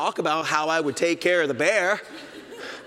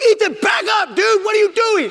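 very high, loud alarmed yell; a frightened dad yelling at his son; panicked shout; 8 dB louder than usual. Retold or imitated. Dad panics at mama bear.

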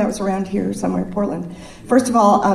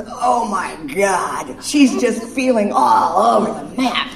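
husband's exasperation; slower than usual. Retold or imitated. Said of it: "leans back and goes".

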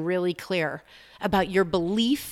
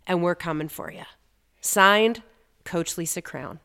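letter to the shifting market. Acted. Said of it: "here's the letter for the shifting market".

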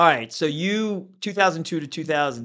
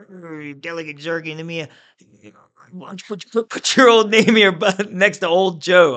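higher put-on voice of an older colleague, building loud; imitating Joe; 5 semitones higher, 8 dB louder than usual. Senior delegate asking a newcomer to share his bill, imitated. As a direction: mimic a colleague's halting request, growing loud. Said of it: "So Joe says".

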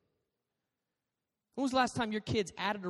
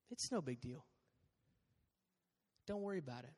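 mock reassurance; 6 semitones lower, 16 dB quieter, faster than usual. Paraphrasing serpent's lie.

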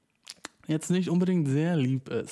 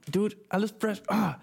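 voice of the ear; 7 semitones higher than usual. Pretend. The ear answers back.

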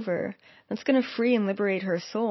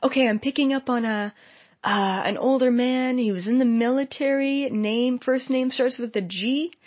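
put-on old-school stage medium; 5 semitones higher than usual. A stage medium reading the crowd, mild mimicry. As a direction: lightly mimic a TV psychic fishing for names. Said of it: "Kind of like the old school".

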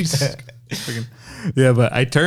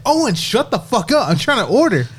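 high, exasperated mock yell without volume; retold yell; 8 semitones higher than usual. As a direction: retell snapping at a friend who interrupts. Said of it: "I had to start yelling at him".

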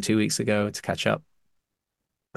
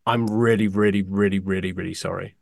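mock emotional; 2 semitones lower than usual. Fan apologising to films left off the list, mock emotional. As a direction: pretend to be near tears over it. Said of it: "I'm gonna get emotional".

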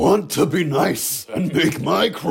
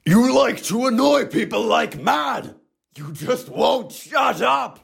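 angry scolding shout; angry yelling; 4 semitones higher than usual. Acted. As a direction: tell them off. Berating the children.

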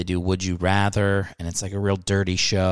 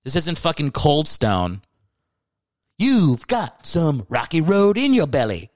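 higher, exasperated mock rant at a customer; fed-up employee; 5 semitones higher than usual. Comedian voices a Geico worker scolding a singing customer, exasperated. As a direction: play the worker who finally snaps. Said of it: "How about you go".

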